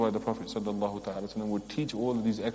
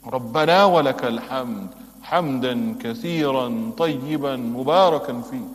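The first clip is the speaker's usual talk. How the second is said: fast, louder recitation; full dua recited; 5 dB louder, much faster than usual. Shown as a demonstration. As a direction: recite the whole dua fluently. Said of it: "Why do we not learn these du'as?".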